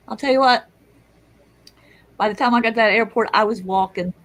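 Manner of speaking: high, loud and fast; excited. Real, not acted. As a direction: rush toward the good news. Second climax.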